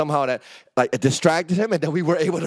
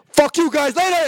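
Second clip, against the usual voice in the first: high and louder, ditching friends; mock bail-out yell; 12 semitones higher, 6 dB louder than usual. Abandoning friends at the lot, high mock yell. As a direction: toss it off as you flee. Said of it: "I'd be like".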